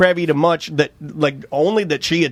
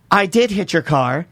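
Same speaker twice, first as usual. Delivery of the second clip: imitating the woman; 2 semitones higher, slower than usual. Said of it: "and she goes".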